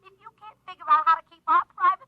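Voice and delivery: angry ultimatum. Acted. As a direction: put your foot down, loudly.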